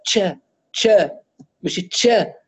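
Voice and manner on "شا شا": شا said like تشا with a t before the sh; sheen with a t. Shown as a demonstration. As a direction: add a t onset to شا. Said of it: "يدخلون فيها حرف التاء". (شين فيها تاء)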